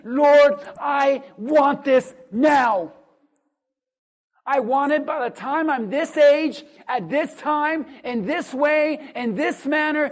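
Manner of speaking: loud, insistent mock demand; a hammed-up demanding prayer. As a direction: play the spoiled petitioner barking orders at God. Mocking a demanding believer.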